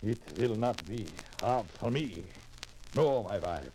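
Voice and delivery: put-on hopeful man in a European immigrant accent. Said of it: "With that accent?".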